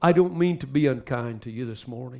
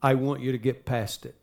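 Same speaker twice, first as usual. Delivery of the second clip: retold gentle nudge, voice lowered; loving; 4 dB quieter than usual. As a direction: tell her softly and lovingly. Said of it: "I said lovingly to her".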